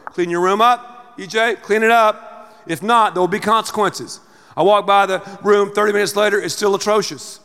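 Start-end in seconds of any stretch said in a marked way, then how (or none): 0.1-4.2 calm wise parent. Shown as a demonstration. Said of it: "here's what a wise parent would do".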